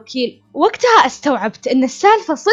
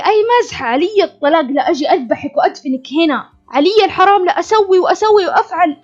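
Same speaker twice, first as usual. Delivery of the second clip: husband's threats, a touch higher and louder; mock-angry husband yelling threats; retold loud threat; 4 semitones higher than usual. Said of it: "قال بصوت عالي". (تهديد زوج غاضب بصوت عالٍ مقلَّد)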